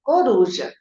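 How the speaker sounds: "coruja" in one connected word, no syllable breaks; whole-word reading. Shown as a demonstration. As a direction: read "coruja" whole and smoothly. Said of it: "ensinar a criança a ler assim".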